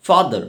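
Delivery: father ending in an open vowel; father with silent final R; R dropped. Shown as a demonstration. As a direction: leave the R off the end of father. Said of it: "রায়ের উচ্চারণ হবে না".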